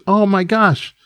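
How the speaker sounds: high-pitched, wide-eyed gushing; sing-song high voice of a naive, delighted colleague; gushing staffer. Acted. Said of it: "looks and says".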